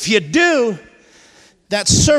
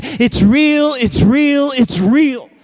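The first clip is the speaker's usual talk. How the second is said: louder, ringing "It's real" like a crowd of witnesses; loud proclamation; 4 dB louder, slower than usual. Retold or imitated. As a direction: cry it out as the cloud of witnesses. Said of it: "with a loud voice they are saying".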